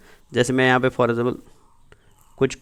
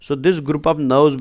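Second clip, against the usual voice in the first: slow dictation; much slower than usual. Shown as a demonstration. Teacher dictating slowly.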